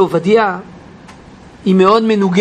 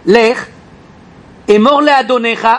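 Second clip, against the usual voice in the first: curt. Acted. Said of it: "הוא חד".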